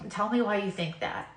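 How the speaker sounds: still, calm and loving. Retold or imitated. God calmly repeating his question, still and loving. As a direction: answer her gently, unbothered. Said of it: "Just still this calm, still, loving voice".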